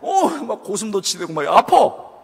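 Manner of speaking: words broken by laughter; laughing while talking. Real, not acted. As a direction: keep laughing as you tell it. Laughing through the story. (웃으면서 말하기)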